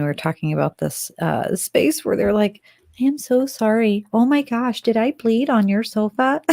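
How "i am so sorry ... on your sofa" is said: higher-pitched imitated apology; mock-mortified, over-polite apologizing; retold apology. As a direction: play someone coming to and apologizing. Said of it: "the person was actually apologizing".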